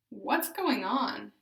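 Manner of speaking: loud, clear practice phrases with questions rising; therapy drill phrases, loud and deliberate; deliberate, intentful. Shown as a demonstration. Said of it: "use intent when speaking".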